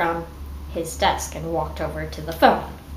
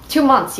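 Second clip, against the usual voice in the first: "Two months" louder, higher, pointed to the audience; stress on two; 5 semitones higher, 6 dB louder than usual. Real, not acted. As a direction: hit "Two" hard, incredulous. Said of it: "you guys".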